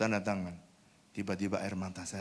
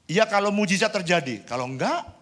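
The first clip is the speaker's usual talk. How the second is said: doubting voice; 10 semitones higher, 10 dB louder than usual. Acted. Voicing doubting thoughts.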